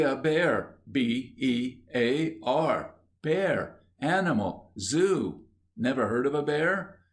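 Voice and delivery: impatient, spelling out B E A R slowly; irritably. Acted. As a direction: explain it like to a dim child, annoyed. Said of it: "said the man irritably".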